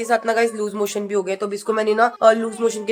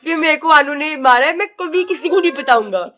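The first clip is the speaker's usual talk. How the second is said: slightly raised, playful toy voice; lightly voiced toy monkey; 3 semitones higher than usual. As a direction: speak up for the hurt toy. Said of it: "इसने बोला था".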